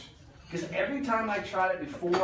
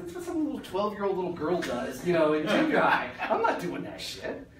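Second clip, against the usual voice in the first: higher, laughing scoff at the idea; scoffing dismissal; 4 semitones higher, 4 dB louder than usual. Retold or imitated. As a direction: brush off the coach with a mocking laugh. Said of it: "I'm like".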